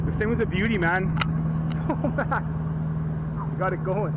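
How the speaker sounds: high, slow, near-tearful joy; overjoyed. Real, not acted. Owner celebrating the engine he fixed, overjoyed and high. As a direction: stretch it out in delight.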